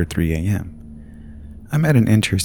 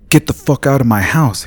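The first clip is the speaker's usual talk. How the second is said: high, loud furious yell; 7 semitones higher, 7 dB louder than usual. Acted. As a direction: scream him out of the house. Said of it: "he yelled".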